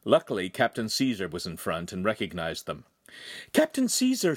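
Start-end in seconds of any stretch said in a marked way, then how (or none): 3.5-4.3 high, breathless gasp of a name; out of breath, calling up high; winded urgent call; panting. Acted. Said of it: "she panted".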